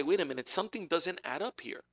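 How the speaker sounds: a touch of a disgusted outsider pointing out hypocrisy; indignant seeker. Retold or imitated. Preacher voices a seeker judging Christians, mildly indignant. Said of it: "they're gonna look at their lives and say".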